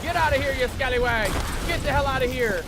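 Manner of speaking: defiant cursing. Real, not acted. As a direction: curse the enemy as you go down. Cursing attackers while going down.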